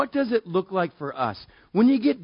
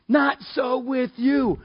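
Not so with you slow and ringing; shouted verse; 8 semitones higher, slower than usual. Acted. Preacher hammers the point, shouting.

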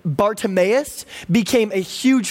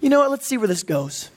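patronizing; 3 semitones higher than usual. Retold or imitated. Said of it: "he kind of patronizingly goes".

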